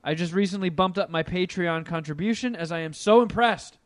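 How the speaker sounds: upbeat read-aloud voice; reading an email aloud. Acted. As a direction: read the listener email brightly. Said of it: "We'll do one email".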